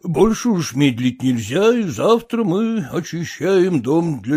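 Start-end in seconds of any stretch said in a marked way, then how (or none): none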